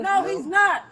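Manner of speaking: high-pitched yell at the officers; real high-pitched yelling. Real, not acted. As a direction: yell back in protest. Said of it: "Why is she yelling?".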